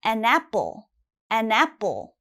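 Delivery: an apple run together as one word; linked article. Shown as a demonstration. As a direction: say "an apple" like "anapple", no break. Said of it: "it has to sound almost like one word".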